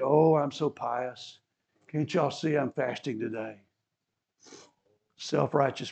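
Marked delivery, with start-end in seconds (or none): 0.0-3.6 mock piety. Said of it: "they'd go out into the market".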